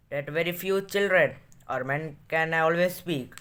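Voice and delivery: very slow, deliberate read-aloud; measured classroom reading; story reading. A narrator's reading. Reads story aloud in English.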